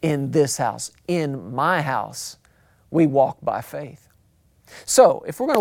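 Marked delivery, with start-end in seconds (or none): 0.0-4.1 God as Father. Acted. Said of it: "You need to hear your Father God saying".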